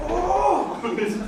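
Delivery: high, excited strained burst; high-pitched, hammed-up eagerness; mock showing-off. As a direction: act out a kid racing past a crush. Acts showing off speed to crush.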